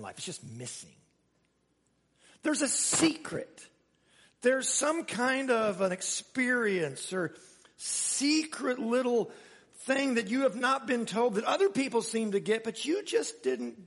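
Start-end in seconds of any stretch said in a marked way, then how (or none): 2.4-11.4 slow, higher, teasing secret voice; slow, mock-mysterious hush about a secret; mysterious hint. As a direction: draw it out like a secret you are dangling. Hinting at a hidden secret.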